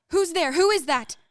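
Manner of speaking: sharp, loud frightened challenge; loud "who's there" at a noise in the night; alarmed call. Acted. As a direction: call out into the dark, startled. Woken by intruder, calling out.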